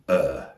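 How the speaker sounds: ER as a long relaxed schwa; lazy neutral vowel. Shown as a demonstration. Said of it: "a lazy neutral vowel".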